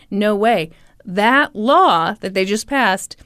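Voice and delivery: lightly put-on French accent; a hint of French lawyers. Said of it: "you've been doing a French accent this whole time".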